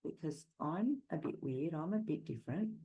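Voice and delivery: put-on softly, a child's anxious inner thought; quiet inner worry. Sensitive child asking themselves if they're next, softly. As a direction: murmur it as a hurt child wondering. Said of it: "in their mind".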